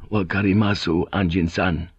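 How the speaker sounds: subdued, even acknowledgement; submissive assent. Acted. Samurai backing down before the pilot, submissive assent. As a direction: give in respectfully, without force.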